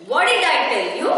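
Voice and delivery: fast, sharp scolding from the well; the well scolds Raju, a touch of anger; angry well voice. Retold or imitated. The magic well scolds greedy Raju, mildly angry. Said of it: "called out an angry voice".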